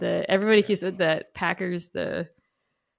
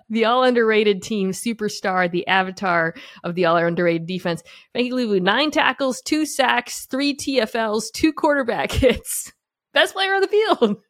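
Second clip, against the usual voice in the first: excited; 4 semitones higher, 4 dB louder than usual. Real, not acted. Hyped shout out to player.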